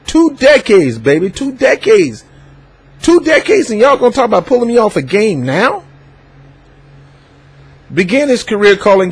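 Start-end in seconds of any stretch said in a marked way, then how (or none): 0.1-5.8 mock indignation. Voicing Lee's indignation.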